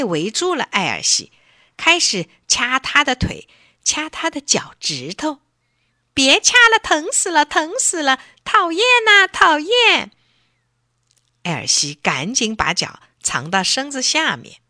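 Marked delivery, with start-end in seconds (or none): 6.1-10.1 pained pleading. A narrator's reading. Elsie pinched by crabs.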